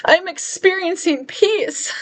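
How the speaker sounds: high, slow, tear-choked words; crying. Real, not acted. Vlogger reliving the moment of peace, crying. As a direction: let the tears break through each word. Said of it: "I'm gonna start crying right now".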